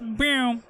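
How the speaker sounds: lightly imitated weapon firing sound; little vocal sound effect of a gauntlet going off; Plague Spurt Gauntlet noise. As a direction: make a small gun noise with your mouth. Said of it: "That was my, um, voice impression of a Plague Spurt Gauntlet".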